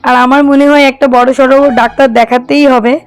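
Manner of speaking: hoarse, worn-out voice from a cold. Real, not acted. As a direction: talk through a sore, hoarse throat. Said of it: "এই রঙে আমার গলাটা পুরো বসে গেছে".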